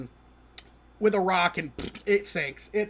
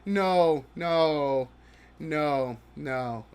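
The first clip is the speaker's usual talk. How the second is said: fading no; 4 semitones lower, much slower than usual. Real, not acted. Repeated no fading.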